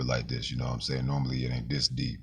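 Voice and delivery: a famous soul singer's voice. Real, not acted. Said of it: "gave me a little of a famous singer's voice".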